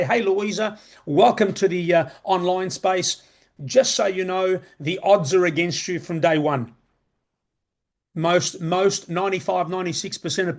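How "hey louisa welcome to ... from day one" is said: mock industry voice. Pretending the industry warns a newcomer, lightly mocking. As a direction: play the honest recruiter with mild irony. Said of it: "The industry doesn't say".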